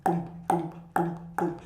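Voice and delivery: low mock boom of taxi music; imitated bass boom. Teacher mimics taxi music going boom. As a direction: thump it like a taxi speaker. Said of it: "it goes boom".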